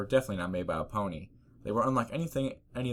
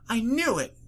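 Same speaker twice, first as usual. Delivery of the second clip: high, loud triumphant cry; Twilight by mistake; 14 semitones higher, 6 dB louder than usual. Acted. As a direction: exclaim it high, in the wrong pony's voice. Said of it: "not Twilight".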